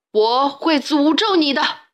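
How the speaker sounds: slow, menacing threat; stern curse. A narrator's reading. Pharaoh threatens the boy from the roof, severe. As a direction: pronounce the curse slowly. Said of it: "语气严厉地说".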